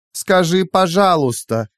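high, drawn-out teasing; taunting high voice; mocking demand. A narrator's reading. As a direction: make them beg, sweetly and slowly. AI demands captive say please.

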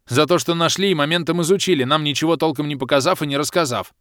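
loud indignant roar. A narrator's reading. Bom roaring his complaint at the baronesse. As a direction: bellow the grievance at them. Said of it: "проревел Бом".

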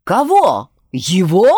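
indignant loud demand; angry. Acted. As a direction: thunder it out, outraged. Teodor roaring at accusation.

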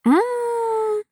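high drawn-out hum of delight over chocolate; moan of pleasure. A narrator's reading. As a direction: savour it with a long high mmm. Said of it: "громко застонала от наслаждения".

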